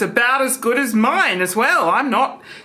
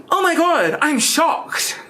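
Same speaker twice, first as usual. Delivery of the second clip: hammed-up gasp, higher; mock shock; 6 semitones higher, slower than usual. Shown as a demonstration. Acting demo for the camera, hammed-up shock. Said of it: "Here's shocked".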